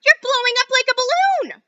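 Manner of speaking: mother screams as Violet turns blue; screaming mother. Acted. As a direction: draw the scream out in horror. Mother screeching.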